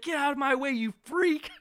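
high, loud mock shriek; screeching Quinn impression. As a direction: screech it like a charred villain. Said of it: "he's like".

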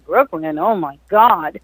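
retold dismay, slowing on the exclamation; dismayed disbelief. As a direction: recoil mildly at the idea. Retelling her dismay at Brooklyn.

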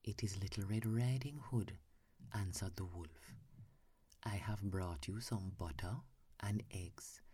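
hushed sleepy storytelling, half whispered; whispered bedtime story. Acted. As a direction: read it like lulling a child to sleep.

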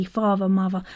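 father, mother with TH said as V. Shown as a demonstration. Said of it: "the T H becomes a, a, a V".

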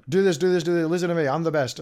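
lightly mock the know-it-all giving orders; preachy bossy gamer. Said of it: "preachy and almighty above everyone".

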